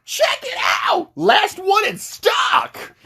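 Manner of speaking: high falsetto, slow and drawn out; slow falsetto saleswoman; shop lady voice. Retold or imitated. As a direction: play the store lady in a squeaky high voice. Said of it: "the lady's like".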